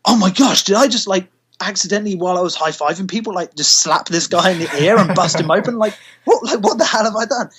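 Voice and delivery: panicked worry. Retold or imitated. Panicked self quoted after bleeding fan.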